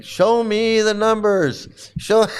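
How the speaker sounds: slow, high telethon plea; Jerry Lewis. Retold or imitated. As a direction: plead like a telethon host. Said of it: "I feel like Jerry Lewis in the telethon".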